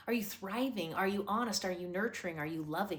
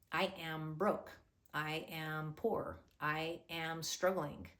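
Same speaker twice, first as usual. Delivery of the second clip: slow defeated self-talk; 2 semitones lower, slower than usual. Pretend. Voicing negative self-talk.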